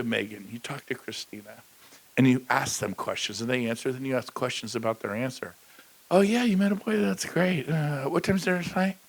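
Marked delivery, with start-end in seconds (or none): 6.1-9.0 distracted parent. Distracted parent not listening.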